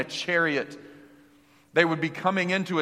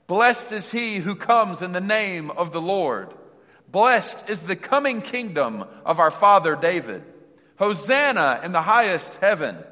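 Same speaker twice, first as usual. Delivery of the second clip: proclaimed; 3 semitones higher, 5 dB louder than usual. Retold or imitated. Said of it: "they shouted".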